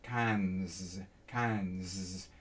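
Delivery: "cans" with the pitch dropping low on the S; low, falling "cans". Shown as a demonstration. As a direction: let "cans" fall low into the throat. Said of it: "my tone kind of naturally goes down".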